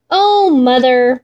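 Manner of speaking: slow, yearning plea to mother; pleading cry. Acted. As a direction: draw it out, longing. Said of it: "Moonshine cried".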